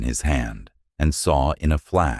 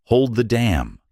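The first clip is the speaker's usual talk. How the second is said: scream; 9 semitones higher than usual. A narrator's reading. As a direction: scream the order across the chaos. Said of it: "Merritt saw the motion and screamed".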